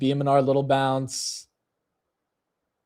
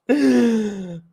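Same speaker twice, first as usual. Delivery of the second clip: high, loud burst of laughter; incredulous laugh; 10 semitones higher, 8 dB louder than usual. Real, not acted. Trader seeing the S and P turn green, incredulous laugh.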